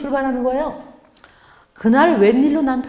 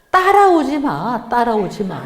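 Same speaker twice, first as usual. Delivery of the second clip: angry retort; 3 dB louder, slower than usual. Retold or imitated. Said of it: "화가 너무 나는 거예요".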